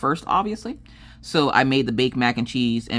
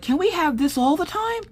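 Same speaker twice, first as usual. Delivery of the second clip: put-on very high small-child plea; little girl asking. Maggie covered in sauce, pleading in a very high child voice. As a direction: beg sweetly like a little girl. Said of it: "she's like".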